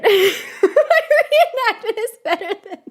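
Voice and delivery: high voice breaking into laughter; real laughing fit, pitched high. Real, not acted. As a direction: talk through helpless giggles. Laughing at own reenactment.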